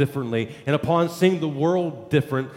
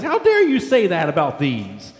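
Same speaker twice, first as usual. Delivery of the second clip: upset father scolding; 5 semitones higher than usual. Retold or imitated. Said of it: "the father was kind of upset about this".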